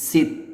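সিত joined first, then air let out; breath-release hams. Shown as a demonstration. Teacher demonstrates joining then breathing out, breath-release hams. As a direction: release a whispery puff after the t of সিত. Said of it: "একটা বাতাস বের হবে".

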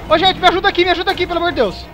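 loud, fast desperate begging; panicked pleading. Real, not acted. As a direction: beg for help in panic. Begging for help while chased.

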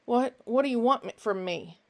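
breathless, fast, stammering; panting. Acted. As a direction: gasp the words out in a rush.

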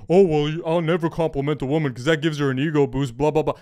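fast, mocking know-it-all voice; mock amateur. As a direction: parody a guy who overthinks women. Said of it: "all you guys who think".

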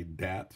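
"dat" with a hard d for the th, French-Canadian style. Shown as a demonstration. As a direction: say "dat" like a Franco-American. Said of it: "that I say".

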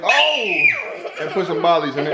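laughing through the line. Real, not acted. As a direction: crack up while saying it.

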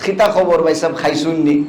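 put-on light Sylheti accent, ক said as খ in খিতা and খবর; casual Sylheti greeting with খ for ক. Preacher imitating Sylheti speakers, mild Sylheti accent. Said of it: "এরা কিন্তু কয়ের উচ্চারণও খ করে".

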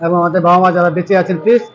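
loud, projected presenter opening; vlog intro. Real, not acted. Presenter's opening address to viewers.

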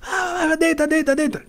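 barked order. Retold or imitated. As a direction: shout him down to the ground. Guard ordering him down. (segurança mandando deitar, muito agudo)

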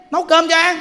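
loud, high irritated yell; angry scolding. Acted. Fed-up carer to crying child, angry scolding. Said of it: "mà quý vị sân si lên á".

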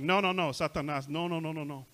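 firm, quick refusal; with authority. Acted. Preacher models speaking to Satan, with authority. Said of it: "speak to him with authority".

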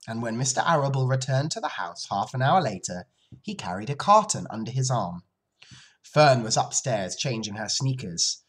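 measured, clearly phrased storytelling; story narration. Acted. Teacher reads the end of day story, measured narration. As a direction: read aloud to children.

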